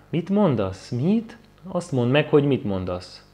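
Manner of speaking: high, loud badgering shout; drunk yelling. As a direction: bark the question at him, demanding. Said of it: "Ne kiabáljon már".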